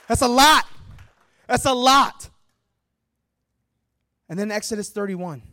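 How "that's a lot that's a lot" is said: loud, higher exclamation, twice over; emphatic shout. Shown as a demonstration. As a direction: belt it out after a breathless run. Exclaims after racing through long list.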